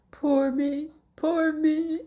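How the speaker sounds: high, loud wailing cry; cried out. Acted. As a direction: cry it out so someone hears. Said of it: "cried Little Claus".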